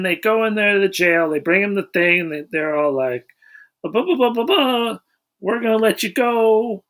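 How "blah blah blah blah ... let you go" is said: higher, lightly mocking officials. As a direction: rattle it off like bored bureaucrats. Voicing the officials in the movie.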